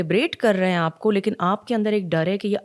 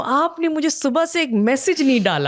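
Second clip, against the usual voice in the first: raised, louder, mock-accusing complaint; mock angry complaint; 6 semitones higher, 4 dB louder than usual. Wife complaining to her husband about no message, mock angry and loud. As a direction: scold him for not texting all morning, playfully.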